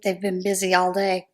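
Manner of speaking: ordinary talk, nothing marked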